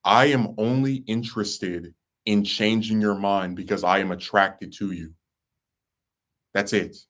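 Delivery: measured, straightforward retelling of a firm statement; very plainly. Retold or imitated. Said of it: "I said to her very plainly".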